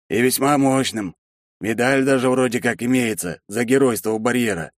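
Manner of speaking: booming Shchedrin. A narrator's reading. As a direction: wave it off with bluster.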